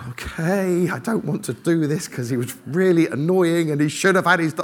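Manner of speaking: grudging agreement. Retold or imitated. Acted grudging agreement to apologise.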